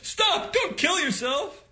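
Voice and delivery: high, loud mock panic; mock shout. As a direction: yell it like a hammed-up alarm. Friend's pillow prank, retold.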